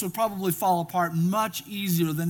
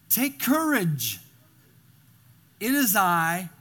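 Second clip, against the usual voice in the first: reassuring; 2 semitones lower than usual. Acted. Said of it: "I want to look at those eight words".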